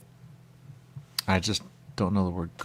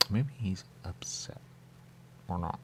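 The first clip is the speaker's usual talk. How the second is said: whisper; 9 dB quieter than usual. Real, not acted. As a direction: drop to a whisper to share a secret. Aside whispered to the audience.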